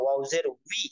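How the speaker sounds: "উই" said with rounded lips. Shown as a demonstration. Teacher showing students the waw sound, rounded lips on "উই". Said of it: "ঠোঁটটা গোল হবে".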